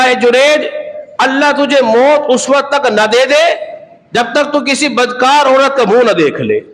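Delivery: a hint of a mother cursing in anger; angry mother's curse. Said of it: "ماں غصے میں آ گئی".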